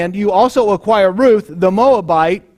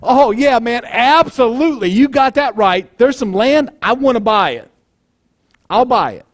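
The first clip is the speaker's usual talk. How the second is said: eager, higher voice of a buyer; eager yes; 4 semitones higher than usual. Retold or imitated. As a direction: jump at the deal like a greedy buyer. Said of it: "They double it up in Hebrew to say".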